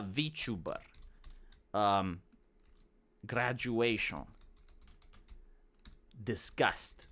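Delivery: low, quiet, long gaps between items; typing aloud. Acted. Creator filling in metadata tags, absent-minded typing voice. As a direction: murmur each tag separately as if typing it.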